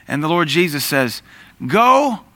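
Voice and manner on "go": commanding call. Acted. Jesus commanding the lepers.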